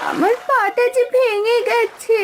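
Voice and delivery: put-on injured goose whimpering to the girl; crying in pain. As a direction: sob out the hurt slowly. Goose with broken leg.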